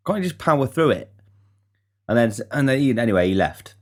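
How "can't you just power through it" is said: higher, irritated pleading; annoyed at losing his lift home; exasperated plea. Retold or imitated. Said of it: "I was like".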